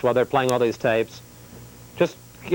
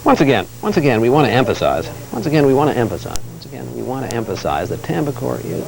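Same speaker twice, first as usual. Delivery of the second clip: emphatic anchor read, falling on each phrase; measured TV correspondent delivery; news read rehearsal. Pretend. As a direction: practice the broadcast opening phrase by phrase.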